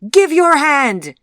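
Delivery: slow, high, shouted order; loud command. A narrator's reading. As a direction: order it at full volume. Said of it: "commanded the old woman loudly".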